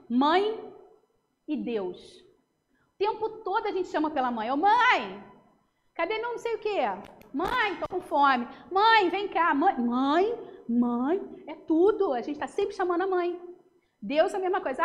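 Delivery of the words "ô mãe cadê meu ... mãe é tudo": calling mom. Retold or imitated. Child calling for mother.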